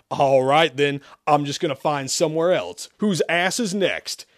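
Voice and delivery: wild yell. Acted. Freed demon seeks his next host, yelling wildly. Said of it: "he yelled wildly".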